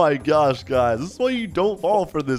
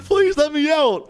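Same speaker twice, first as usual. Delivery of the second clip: high, drawn-out mock plea; acted panic, pitched way up; pleading child; 13 semitones higher, 4 dB louder, slower than usual. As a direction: beg like a frightened kid. Voicing child begging to escape.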